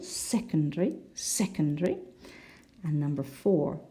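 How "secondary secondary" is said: "secondary" stressed on the first syllable, rising at the end. Shown as a demonstration. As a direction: lean on the opening of "secondary". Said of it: "the first syllable".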